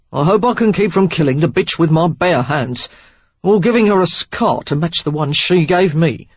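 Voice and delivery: loud, hard and furious; seething threat of violence. A narrator's reading.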